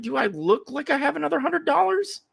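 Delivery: high, incredulous complaint; indignant retort. Retold or imitated. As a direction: protest like you're outraged at the price. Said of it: "I was like".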